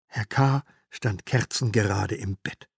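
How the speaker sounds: ordinary delivery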